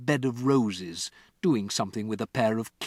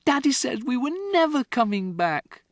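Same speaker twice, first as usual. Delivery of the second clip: put-on high, urgent child's account; upset girl; 13 semitones higher, 5 dB louder than usual. Matilda to Miss Honey, high and urgent. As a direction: pour it all out.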